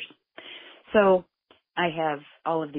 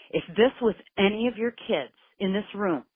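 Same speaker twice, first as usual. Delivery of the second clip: higher, pressing and indignant; heated appeal; 6 semitones higher than usual. Retold or imitated. Mother challenging the investigators, high indignant pitch. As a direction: push the outrage up into the voice.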